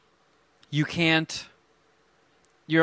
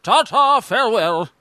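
posh farewell; 6 semitones higher, 6 dB louder than usual. Retold or imitated. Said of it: "he's just like".

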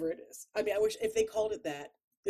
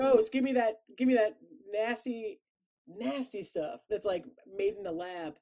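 disgusted; 3 semitones higher, 4 dB louder than usual. Acted. People disgusted by candy.

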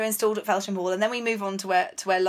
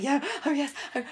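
flustered, higher-pitched stammer, lightly imitated; mock starstruck; 4 semitones higher than usual. Host mimics starstruck Jane asked to lend her hall, flustered and fluttery. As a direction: imitate a tongue-tied fan, half laughing. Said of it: "Jane is completely starstruck".

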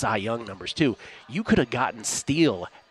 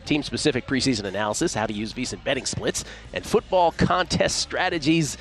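ad read. Acted. Reads a promo spot.

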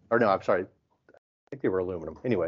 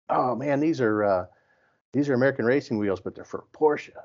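mildly imitated excitement, pitched higher; pumped up; 4 semitones higher than usual. Imitating the guy showing off his wheels, pumped up. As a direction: retell a proud stranger showing off his find. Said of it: "he was so pumped up".

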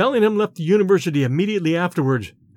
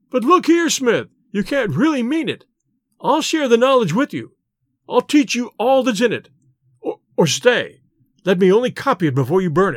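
pleading Bellingham; 4 semitones higher than usual. Acted.

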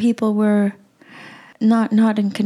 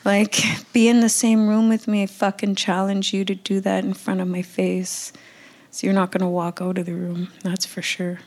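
quietly furious; 3 dB quieter than usual. Real, not acted. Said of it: "I'm so mad".

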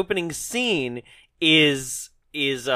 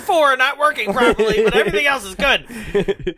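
laughing; 8 semitones higher, 5 dB louder than usual. Pretend. Mock injured report laughing.

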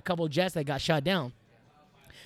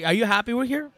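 wondering; 7 semitones higher than usual. Retold or imitated. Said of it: "like, wondering".

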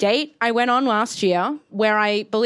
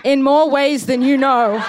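slow, louder, knowing and sinister; sly ominous reply; 3 semitones higher, 5 dB louder, slower than usual. Retold or imitated. Comic quoting her reply to her date, slow and sly. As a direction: let the double meaning drip.

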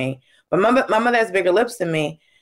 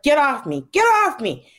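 mock scuffle; 5 semitones higher than usual. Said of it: "poke each other and just go".

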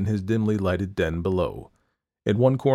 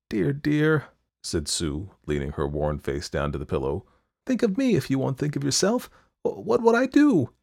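breaking, higher pleading friend; anguished plea; 7 semitones higher than usual. A narrator's reading. Sue to dying Johnsy, a breaking plea. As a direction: beg her, voice catching.

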